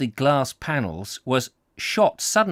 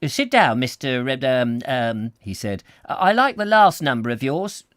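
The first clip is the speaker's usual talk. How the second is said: brusque agent; 4 dB louder than usual. Acted. Mister Jerome voiced.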